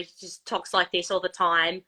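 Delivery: light Australian accent. Shown as a demonstration. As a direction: talk casually in an Australian accent. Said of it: "he's an Australian accent".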